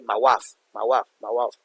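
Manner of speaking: Cockney "wife" as "waf", lightly done; a light Cockney "My wife", vowel flattened to "waf"; Cockney accent. Shown as a demonstration. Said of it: "he now uses that accent".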